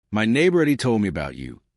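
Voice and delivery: put-on light Texas accent, easy and unhurried; old vet with a slight Texas drawl. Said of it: "that slight Texas drawl".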